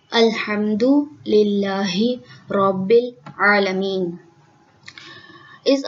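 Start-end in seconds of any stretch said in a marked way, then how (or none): 0.1-4.2 slow, measured tajweed chant; Quranic recitation. Shown as a demonstration. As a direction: recite the verse as in prayer.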